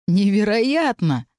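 slow, drawn-out amazement; stunned. Acted. Elisar after the confession, slow stunned marvel. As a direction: let the wonder stretch out.

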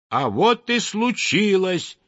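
a hint of a lively little bird; lightly voiced chirpy titmouse. A narrator's reading. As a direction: chirp it out, perky. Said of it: "чиликнула бойкая синичка".

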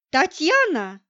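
lightly voiced anxious woman; взволнованно. A narrator's reading. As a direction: call out the name, a little alarmed. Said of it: "взволнованный женский голос". (взволнованный женский голос)

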